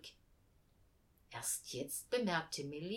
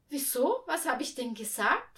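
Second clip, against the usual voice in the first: put-on high, louder child's question; puzzled little girl; 6 semitones higher, 5 dB louder than usual. A narrator's reading. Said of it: "fragte sie".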